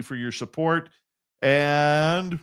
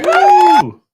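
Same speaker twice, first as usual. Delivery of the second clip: voice effect; 15 dB louder than usual. Shown as a demonstration. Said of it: "I can now do sound effects on my board here".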